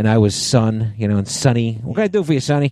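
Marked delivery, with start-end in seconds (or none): 1.8-2.7 put-on old-timey man's voice, higher, faster. Acting out how an old-timey guy greeted him, in an old-timey guy voice. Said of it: "He talked like this".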